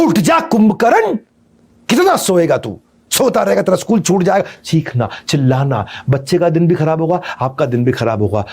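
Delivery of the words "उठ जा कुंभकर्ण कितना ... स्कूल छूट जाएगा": shouted high, dragging the first call; mother yelling wake-up. Retold or imitated. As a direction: bark at a sleeping child to get up. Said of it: "चिल्ला के उठाती हैं".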